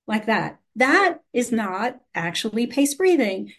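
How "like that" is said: chest breath gasp. Shown as a demonstration. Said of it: "So the breathing is like this".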